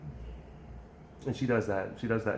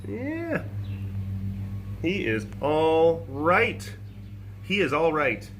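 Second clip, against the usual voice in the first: sweet cooing pet talk. Real, not acted. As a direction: coo at the little one. Cooing at an animal.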